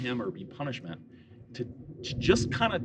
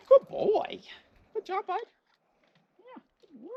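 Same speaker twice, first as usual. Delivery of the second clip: much higher sing-song praise; high dog praise voice; 4 dB louder than usual. Real, not acted. Owner rewarding her dog, high sing-song praise. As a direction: gush over him in a high voice.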